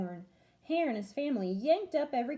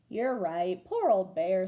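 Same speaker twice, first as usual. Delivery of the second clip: sighing; 4 semitones lower, 3 dB louder, slower than usual. Acted. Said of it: "sighed Hare".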